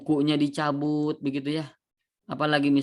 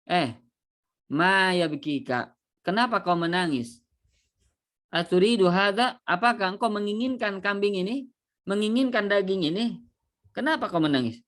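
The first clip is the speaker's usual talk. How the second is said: higher, insistent questioning; questioning onlookers; 4 semitones higher than usual. Acted. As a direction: press him on why he cries. Men question the weeping man. (suara orang yang mendesak bertanya, lebih tinggi)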